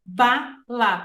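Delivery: bala split into two clapped beats, ba and la; syllable by syllable. Shown as a demonstration. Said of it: "se eu bater palma pra ela".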